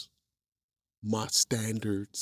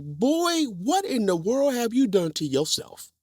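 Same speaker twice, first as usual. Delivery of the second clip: a hint of a scolding father, higher; stern dad voice; 11 semitones higher, slower than usual. Dad scolding his son about the eyebrow piercing, mock stern. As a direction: ask like a shocked, stern dad. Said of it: "he was like".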